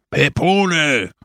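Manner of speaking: restrained yell to get attention; shouting in ear. A narrator's reading. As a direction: call the name urgently to get through. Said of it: "schrieb ihm Brusco ins Ohr".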